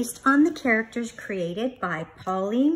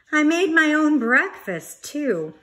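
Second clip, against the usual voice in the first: proud little bear; 6 semitones higher, 8 dB louder than usual. Acted. Bear brags.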